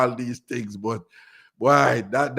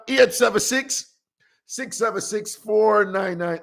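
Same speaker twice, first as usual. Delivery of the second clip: slow clear number; 5 semitones higher, slower than usual. Real, not acted. Host reading the phone number slowly for callers. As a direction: give the digits slowly, one by one. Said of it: "the number is".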